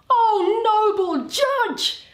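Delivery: high, loud, gloating exclamation; triumphant cry. Acted. Shylock gloats as the judge rules for him, triumphantly. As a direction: crow with delight, drawing out noble judge.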